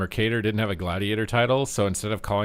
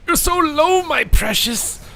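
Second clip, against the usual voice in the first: much higher, creepy croon, slowing on my precious; creepy creature voice; 5 dB louder, slower than usual. Acted. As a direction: coo greedily over your prey. Gloating over weak enemy.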